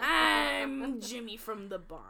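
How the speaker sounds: slow, hammy attempt at an Italian accent; badly faked Italian accent, drawn out; mock Italian accent. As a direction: put on a joke Italian accent. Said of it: "That's my Italian accent".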